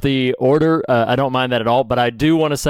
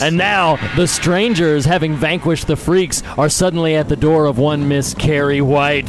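wrestling commentator. Acted. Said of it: "should have been a ringside commentator".

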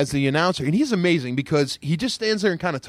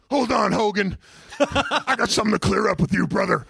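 mock challenge; 7 semitones higher than usual. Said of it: "grab the mic and go".

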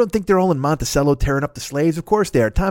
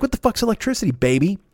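high mocking voice; 7 semitones higher than usual. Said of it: "They're like".

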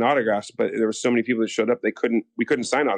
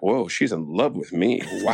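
mock awe; 3 semitones lower than usual. Retelling his awed reaction on set.

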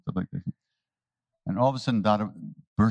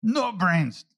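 higher and slow teasing; playful taunt; 7 semitones higher, much slower than usual. Retold or imitated. Maharaji slowly teasing Dada about having no brains. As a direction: tease him slowly. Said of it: "looks at Dada and says".

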